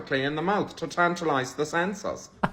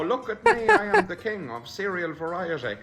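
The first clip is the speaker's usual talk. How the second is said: laughing boast. Retold or imitated. Imagined boast.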